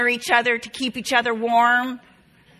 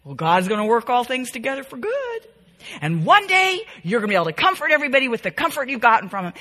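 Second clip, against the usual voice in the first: hurried, pat preacher's answer; mock preachy platitude; 2 semitones higher, much faster than usual. Shown as a demonstration. Mocking a friend who preaches at the grieving, fast and glib. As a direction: rattle it off fast like a glib sermon. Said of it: "You don't have to preach".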